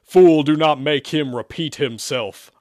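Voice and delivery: loud, slow demon command; imperious order. A narrator's reading. Demon ordering the exorcist from Zach's rear, imperious. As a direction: boom it out slowly. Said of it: "Isaac ordered".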